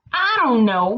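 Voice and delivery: put-on mild drawn-out moan in a country accent. Kansas moaning to best friend Nebraska, mock moan. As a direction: moan it like a bored complainer. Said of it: "moaned Kansas".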